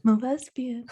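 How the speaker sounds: spoken aloud, lifting then falling at the end; voiced confession. Telling someone she is a lesbian, said aloud.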